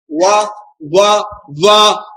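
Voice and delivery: वा drawn out as a careful model; demonstrated syllable. Shown as a demonstration. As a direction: say वा slowly and separately for pupils. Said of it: "देखो हम कैसा वा बोल रहे हैं".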